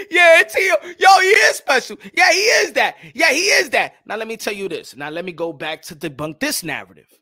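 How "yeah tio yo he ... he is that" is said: high, loud, shouted fan hype; mocking hyped fans. Mocking the bandwagon fans who now call Teofimo special, shouting high and loud. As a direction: ham up the bandwagon fans cheering him. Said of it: "And then everybody on that".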